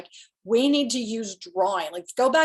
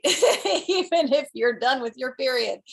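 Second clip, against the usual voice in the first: laughing through the words, a bit slower; 4 semitones higher, 5 dB louder than usual. Real, not acted. Telling women listeners a joke, laughing. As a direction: chuckle out the joke about periods.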